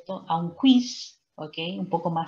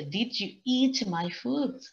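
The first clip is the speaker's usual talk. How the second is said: slower reread, pointing out the structure; teacher's reread; 5 semitones higher, much slower than usual. Shown as a demonstration. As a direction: read it out again slowly, line for a class. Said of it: "fíjense, la estructura está bien hecha".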